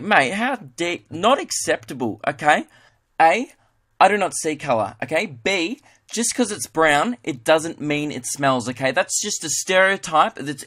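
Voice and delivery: lightly acted righteous telling-off; mock indignation. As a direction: lecture your mate point by point, mildly affronted. Acts offended mate lecturing about stereotypes.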